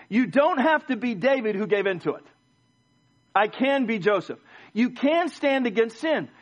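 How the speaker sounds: rousing sermon with stretched key words; exhorting preacher. Acted. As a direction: urge the congregation that victory is possible. Preacher exhorts congregation to overcome.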